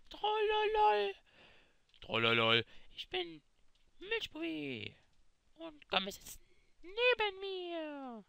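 a lightly put-on kid YouTuber voice; faked Milchbubi voice. Kid fakes Milchbubi's voice for his first video, lightly put on. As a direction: play a mild fake of the YouTuber. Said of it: "Ich bin natürlich alles nur gefaked, die Stimme".

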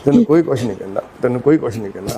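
low, soothing repetition; calm a frightened, crying elder; real low-voiced reassurance; reassuring. Real, not acted. Reassuring a crying old man.

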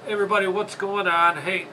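ordinary talk

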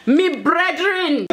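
drawn-out Jamaican "me brethren"; playful put-on Jamaican patois; mock Jamaican accent. To friends, trying a Jamaican accent that drifts Irish. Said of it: "That sounded Irish".

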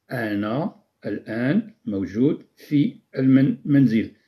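normal talking voice

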